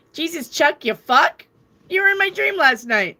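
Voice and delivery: high, loud, playful exasperation; mock exasperated. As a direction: scold him like an old friend who forgot. Pestering Chuck again, exasperated.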